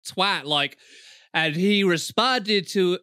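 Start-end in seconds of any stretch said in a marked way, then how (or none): 1.3-3.0 slow mock American narrator; American accent. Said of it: "I don't know why I'm doing American accent".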